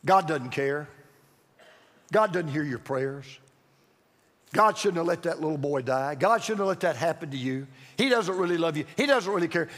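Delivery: low-pitched, insinuating lies; devil's insinuation. Acted. Devil telling you lies about God, low and insinuating. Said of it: "When the devil talks to you about God".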